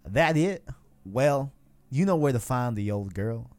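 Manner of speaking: a hint of country twang; country accent. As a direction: read it with a light country accent. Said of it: "why are you doing country".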